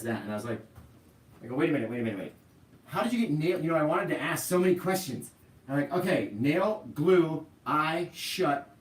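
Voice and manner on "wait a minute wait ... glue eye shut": alarmed questions. Retold or imitated. Retold alarm at daughter's injury.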